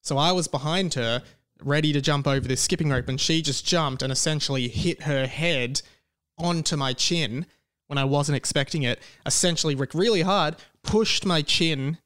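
talking around a sore tongue. Real, not acted. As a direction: speak carefully, tongue hurts to move. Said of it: "I'm talking kind of weird because it's actually painful to talk".

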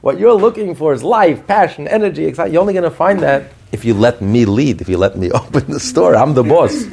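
high, insistent voice of the soul; godly soul speaking up. Acted. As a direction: lay down the law as the soul, pitched high. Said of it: "And the godly soul says".

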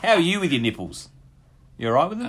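asked through high laughter; giggling while asking; laughing. Real, not acted. Laughing, teasing question.

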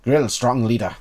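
lightly voiced kobold, terse; simple creature speech, word by word; small creature voice. Kobold explains who the leader is, small creature voice. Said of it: "trying to do a small creature accent".

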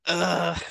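short exasperated "ugh"; annoyed groan. Retold or imitated. Patient recalling the hospital's annoying things, annoyed groan. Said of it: "all these annoying things started happening".

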